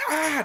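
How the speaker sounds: retold scream, pitched a little high; mild mock scream. Narrator retelling her pain at the breaking arm, mild mock scream. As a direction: imitate a drawn-out scream, lightly. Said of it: "just scream".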